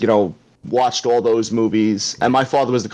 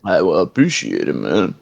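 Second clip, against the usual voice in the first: low, slurred put-on movie voice; Sly Stallone; 4 semitones lower than usual. Shown as a demonstration. Guest thanking the host on request, in a Stallone voice. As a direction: drop low and slur it on request. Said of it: "you gotta do it in the Sly voice".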